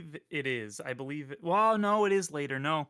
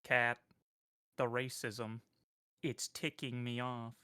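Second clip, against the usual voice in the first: mock annoyed; 4 dB quieter, slower than usual. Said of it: "Grace out here being like".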